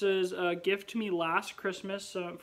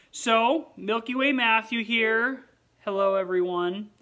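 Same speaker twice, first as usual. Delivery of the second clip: loud, bright-pitched host greeting; a sudden burst of hosting energy; energetic vlog intro; 5 semitones higher, 9 dB louder than usual. Acted. Greeting viewers as a peppy vlog host.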